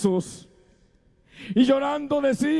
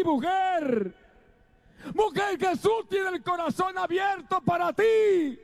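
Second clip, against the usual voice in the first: fervent direct appeal, climbing higher; impassioned altar call; preaching at full force; 3 semitones higher than usual. Acted. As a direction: call out to the women in the congregation.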